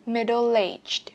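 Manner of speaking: "Middle aged" with the weight on "aged"; careful model "Middle aged", "aged" stressed. Shown as a demonstration. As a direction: lean on the second word of "Middle aged". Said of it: "trọng âm ba vào từ aged".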